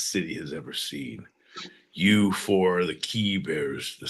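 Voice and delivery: heist mastermind. Pretend. Villain heist monologue.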